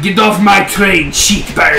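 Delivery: put-on slow, hammy Russian accent; lightly faked Russian villain accent; bad Russian accent. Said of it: "with a really bad Russian accent".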